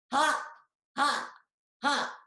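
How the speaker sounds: high, separate hammed-up ha's; mock laughing parrot. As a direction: cackle at him from the treetops. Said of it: "laughing and shrieking".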